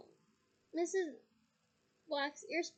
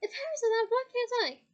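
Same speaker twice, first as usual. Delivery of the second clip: louder, higher, indignant shout; 8 semitones higher, 9 dB louder than usual. Acted. Younger son protesting to his mother, indignant shout. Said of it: "shouted Ron".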